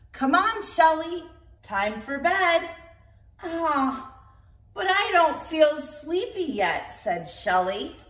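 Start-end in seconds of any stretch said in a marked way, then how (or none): 0.1-2.7 put-on higher, kindly mother calling her child; mother tortoise. Mother tortoise calls Shelley to bed, lightly voiced. 3.4-6.9 put-on higher child voice, mild protest; a small child not ready for bed; little tortoise. Shelley protests to her parents, higher child voice.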